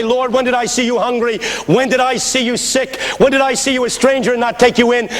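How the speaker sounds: high-pitched, insistent questions; protesting to God. Acted. Sinner answering the Lord at judgment, high protesting plea.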